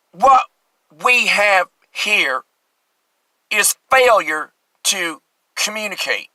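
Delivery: slow, drawn-out prison captain line; Strother Martin impression. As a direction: drawl it out like the Cool Hand Luke warden. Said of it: "I'm doing something from, uh, Cool Hand Luke, Strutherse Martin".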